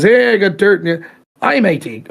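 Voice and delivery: put-on British accent slipping into Australian; botched British accent. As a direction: attempt a Brit and land on Australian. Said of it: "Oh, I'm doing Australian".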